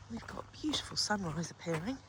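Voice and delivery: whispering. Real, not acted. Early morning quiet by animals.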